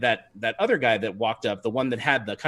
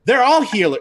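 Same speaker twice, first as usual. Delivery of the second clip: cheering crowd; 9 semitones higher, 6 dB louder than usual. Acted. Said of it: "They're like".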